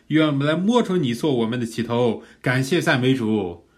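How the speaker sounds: fervent prayer of thanksgiving; 感恩祷告. Shown as a demonstration. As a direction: pour out thanks to the Lord, building in force and pitch. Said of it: "借着这样的一个感恩，把它祷告出来". (热切高昂的感恩祷告)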